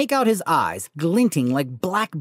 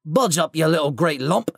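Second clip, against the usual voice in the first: gruff giant. Acted. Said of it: "said the stranger".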